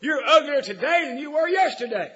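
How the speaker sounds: loud, high mocking parrot call; cheeky parrot. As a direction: tease the customer like a sassy bird. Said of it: "that parrot said".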